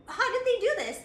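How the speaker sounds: high, laughing what the fuck; laughing disbelief. Retold or imitated. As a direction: act baffled while cracking up. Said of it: "they're just like".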